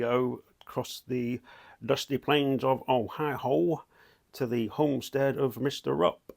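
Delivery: slow, hammed-up American accent sliding into a whisper; mock American accent. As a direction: spin it like a cheesy American storyteller, drawn out. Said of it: "rather shite American accent there".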